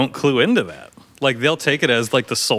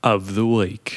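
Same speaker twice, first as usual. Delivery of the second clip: British accent; 3 semitones lower, much slower than usual. Shown as a demonstration. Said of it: "You with the British accent".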